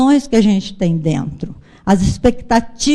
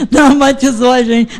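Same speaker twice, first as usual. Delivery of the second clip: laughing. Real, not acted. Laughing retelling son's complaint.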